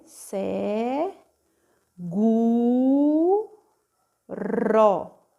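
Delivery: "se, gu, ró" each syllable held apart. Shown as a demonstration. Teacher spelling out "seguro" syllables for pupils, drawn out. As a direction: sound out "se, gu, ró" slowly with pauses. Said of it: "S E".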